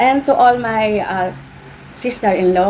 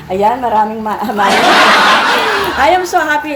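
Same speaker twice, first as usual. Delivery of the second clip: giggling through the words, voice rising; laughing happily; 3 semitones higher, 4 dB louder than usual. Real, not acted. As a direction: laugh it out with delight. Laughing while thanking for money bouquet.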